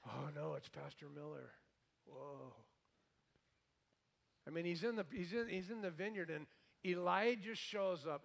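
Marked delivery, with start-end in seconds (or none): 0.1-2.5 freaked-out churchgoer. Retold or imitated. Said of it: "sweating and freaking out like".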